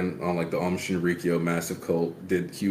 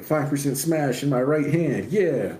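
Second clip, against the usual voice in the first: lightly voiced hero calling out his move, higher pitch; raised, playful battle-cry impression; mock attack call; 7 semitones higher than usual. Host acting out the hero's smash move, mock attack call.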